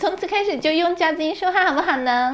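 put-on sweet, babyish girly voice; cutesy clip voice. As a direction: put on a cute, coy voice. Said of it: "我本来说今天的节目全部用夹子音录".

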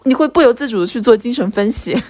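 ordinary delivery

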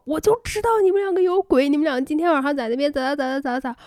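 mock outraged accusation; angry accusation. Jealous Laoma accusing the two friends, mock outraged. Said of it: "老马气死了".

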